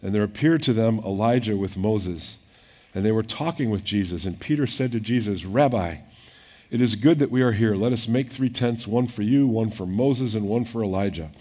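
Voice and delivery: measured reading of the gospel; scripture reading. Acted. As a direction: read the passage steadily to the congregation. Reads scripture aloud.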